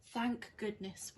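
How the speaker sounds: slow, relieved sigh of thanks. Acted. Winnie as the roof stops leaking, slow and relieved. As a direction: let the relief out slowly. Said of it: "Winnie said".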